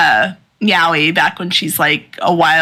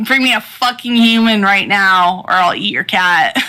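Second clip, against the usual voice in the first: Bat Devil threatening; 3 semitones higher than usual. Retold or imitated. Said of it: "is like".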